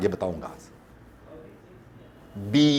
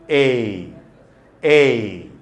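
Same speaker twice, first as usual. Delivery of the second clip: "A" called out much louder; loud drill vowel; 10 dB louder than usual. Shown as a demonstration. Teacher leading class choral repetition, loud "A". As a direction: belt out "A" for the class to repeat. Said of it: "Speak loud".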